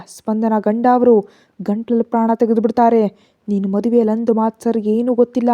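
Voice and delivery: angry warning. Acted. Pavitra angrily warning aunt.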